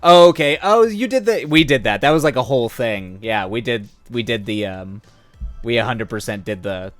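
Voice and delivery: normal talking voice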